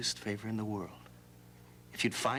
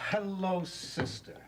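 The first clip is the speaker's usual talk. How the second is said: loud, high-pitched hello; loud greeting; 8 semitones higher, slower than usual. Acted. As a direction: sing it out too loudly. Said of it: "lower your voice a little".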